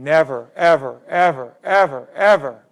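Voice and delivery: loud, rising insistence on each ever; impassioned quote building on repeated ever; Jimmy V quote. Retold or imitated. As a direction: hammer every ever like a coach's rally cry. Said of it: "I heard, uh, Jimmy V say".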